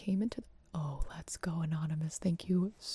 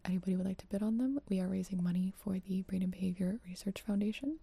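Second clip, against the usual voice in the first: breathy close-mic whisper; 2 semitones lower than usual. Real, not acted. ASMR charity stream whisper.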